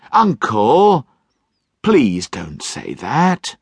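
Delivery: slow, gentle plea; pleading nephew. Acted.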